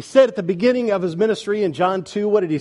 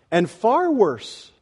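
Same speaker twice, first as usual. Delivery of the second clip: slow, raised pitch on "far worse"; weighty emphasis; 5 semitones higher, much slower than usual. Real, not acted. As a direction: stretch out "far worse", high and heavy. Preacher heightens the horror.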